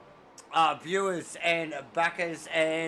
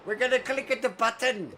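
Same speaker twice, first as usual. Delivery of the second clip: game show host; 4 semitones higher, 4 dB louder than usual. Pretend. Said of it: "like one of those game show hosts".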